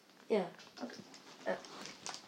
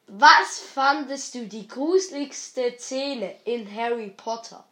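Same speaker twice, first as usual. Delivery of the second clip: louder, slower repeat; 5 dB louder than usual. Real, not acted. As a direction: say it again louder. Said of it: "Aber sag doch mal".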